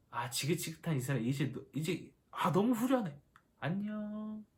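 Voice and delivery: play-acted good-riddance sigh of relief; mock relief. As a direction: toss off a breezy pretend farewell. Imagines Moses relieved to be done. (후련한 척 홀가분하게)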